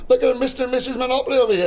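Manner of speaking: fast, high-pitched mockery with laughter; amused teasing. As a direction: tease them through a laugh. Teasing the couple about Mayfair.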